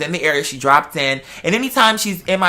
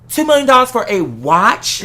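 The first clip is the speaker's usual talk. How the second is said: slow, laughing through the question; laughing disbelief; 5 semitones higher, 3 dB louder than usual. Real, not acted. Son to his mother, laughing at a pricey watch. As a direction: laugh at the price while asking.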